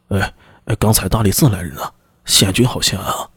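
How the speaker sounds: low, slightly hushed messenger, holding something back; lightly voiced wary messenger. Messenger confiding news from the court to his superior, lightly voiced and wary.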